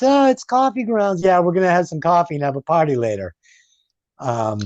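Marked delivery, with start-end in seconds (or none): 0.0-3.3 mock Jenny.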